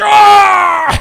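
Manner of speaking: acted-out scream. Acting out getting in someone's face: acting out screaming. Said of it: "Start screaming".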